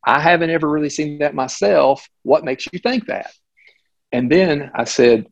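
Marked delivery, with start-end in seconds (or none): 0.0-3.3 pleasant doctor. Retold or imitated. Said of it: "again, very pleasant".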